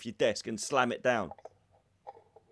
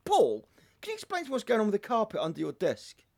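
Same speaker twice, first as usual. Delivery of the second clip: imitated nagging boss; 8 semitones higher than usual. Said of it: "she come past and she goes".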